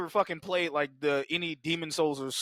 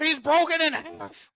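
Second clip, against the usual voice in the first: put-on high voice; 10 semitones higher, 4 dB louder than usual. Acted monster quote, high voice.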